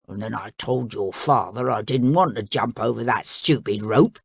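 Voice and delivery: a beast fed up with the family; crocodile. Acted.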